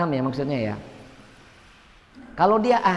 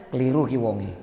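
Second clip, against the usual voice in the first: inner thought; 6 semitones lower than usual. Retold or imitated. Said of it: "Padahal dalam hati kita".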